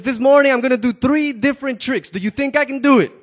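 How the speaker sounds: acrobat calling to the crowd, loud; loud announcement. Acted. Tightrope walker addressing the crowd, loud call. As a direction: boom it out over the crowd. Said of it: "he says".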